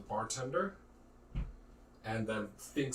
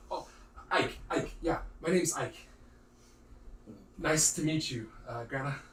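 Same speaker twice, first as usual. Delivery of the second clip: nervous stammer; 2 semitones higher than usual. Acted. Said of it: "He seems really nervous talking to you".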